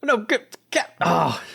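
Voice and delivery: sudden high, broken cry of alarm; character cries out as the captain falls; shocked cry. Acted. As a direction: gasp out the captain's name in horror.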